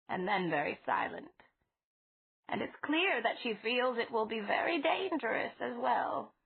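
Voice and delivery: a hint of an anxious grandmotherly voice; old lady, fretful. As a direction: gently fret over him like a fond elderly landlady. Mrs Flowers voiced in story.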